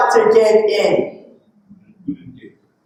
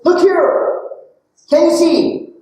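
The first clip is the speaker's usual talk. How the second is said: pointing it out; 4 semitones higher, slower than usual. Shown as a demonstration. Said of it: "then it's".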